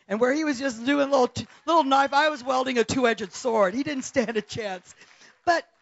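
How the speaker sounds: loud, high, triumphant preaching cry; preaching shout. Real, not acted. Preacher shouting to the congregation about the sword. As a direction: shout the victory over the knife.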